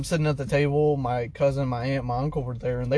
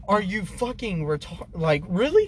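high, loud, slowing on "Three a day"; incredulous outburst; 7 semitones higher, 3 dB louder, slower than usual. Retold or imitated. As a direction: stretch out the disbelief. Incredulous reply to mom.

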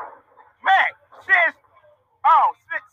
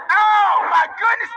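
surprised shout; 4 semitones higher, slower than usual. Real, not acted. Brawl breaks out.

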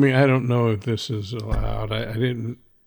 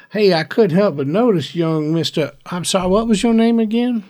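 friendly warden; 6 semitones higher, 4 dB louder than usual. Acted. Warden speaking to the kid.

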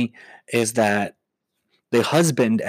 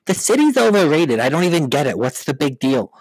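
dismissive Long Islander; 2 semitones higher, 4 dB louder than usual. Acted. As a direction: sneer at the city like a local. Voicing a Long Islander again.

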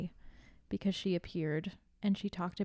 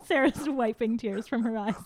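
whisper; 3 semitones higher, 5 dB louder than usual. Real, not acted. Whispered aside about laughing cohost.

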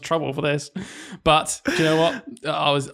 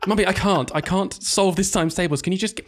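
put-on higher, laughing childish whine; whiny kid; 5 semitones higher than usual. Teacher voicing a child whining to mum, laughing.

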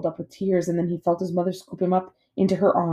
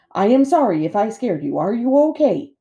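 apologetic robot mother; 5 semitones higher, 6 dB louder than usual. A narrator's reading. Robot comforts worried gosling.

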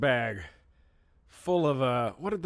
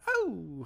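put-on girly gasp; 5 semitones higher, 3 dB quieter than usual. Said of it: "She's got her one sound".

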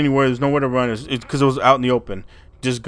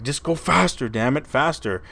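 mildly acted frantic urging, pitch jumping on the first "faster"; urgent plea; 4 semitones higher than usual. Blind aunt urging the driver.

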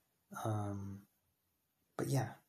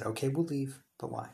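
louder and higher on okay, we'll leave; pushier retelling; 3 semitones higher, 4 dB louder than usual. Retold or imitated. Repeating to the director, louder and insistent. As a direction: push back harder this time. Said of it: "I, I said".

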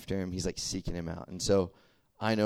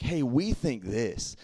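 put-on timid little kid; 3 semitones higher, slower than usual.

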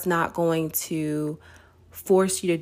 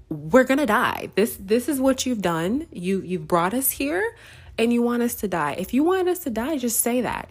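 higher, mock-panicked accusation; a hammed-up panic, pitched higher; panicked complaining crowd; 4 semitones higher than usual. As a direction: play the frightened Israelites blaming Moses. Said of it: "and they're like".

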